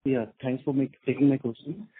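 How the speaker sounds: faint, breaking phone line; barely audible. Real, not acted. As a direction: voice dropping out on the call. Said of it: "Your voice is very low and it's breaking".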